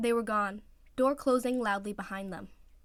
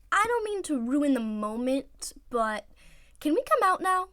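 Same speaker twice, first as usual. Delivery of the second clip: high, louder muffled call; 6 semitones higher, 6 dB louder than usual. Acted. Teammate hidden in a locker, muffled call. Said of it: "a muffled voice ... called out".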